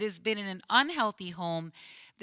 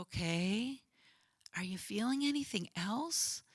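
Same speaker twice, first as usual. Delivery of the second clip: calm and gentle; 6 dB quieter than usual. Retold or imitated. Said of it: "just calmly talking to him".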